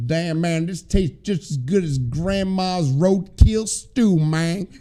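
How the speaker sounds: slow, put-on Southern drawl; badly faked Southern accent; attempted Southern accent. New Yorker trying to fit in down South, put-on Southern accent. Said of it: "I'm trying, guys".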